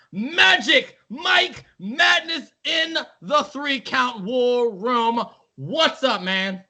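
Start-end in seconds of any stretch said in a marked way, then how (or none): 0.1-5.2 grand entrance announcement. Pretend. Announcing special guest.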